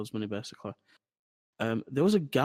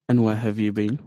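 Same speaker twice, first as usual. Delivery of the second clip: mock loud demand; 9 dB louder than usual. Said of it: "they were like".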